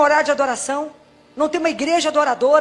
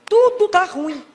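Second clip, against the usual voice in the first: drawn-out weary moaning of a grumbler; mock lament; slower than usual. Preacher mocking a grumbler who says everything is bad, slow and weary. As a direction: sigh it out like a complaining churchgoer.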